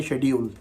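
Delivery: शेड्यूल with a "sh" start, SHED-yool; expected pronunciation. Shown as a demonstration. Teacher explaining spelling versus sound, शेड्यूल as SHED-yool. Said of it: "इसको वैसे तो पढ़ना चाहिए".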